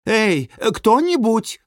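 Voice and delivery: high, drawn-out cry for help; thundering call. A narrator's reading. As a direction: call out slowly from behind a door. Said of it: "прогремели гаражные ворота". (громкий протяжный зов)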